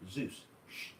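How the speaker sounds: whispering to the dog to hush; a quick shushing whisper so nobody hears. Retold or imitated. Hushing the dog in the dark.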